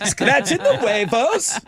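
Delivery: put-on Irish leprechaun accent, slow and high. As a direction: drawl it like a cheeky leprechaun. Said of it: "gotta be done in a leprechaun voice".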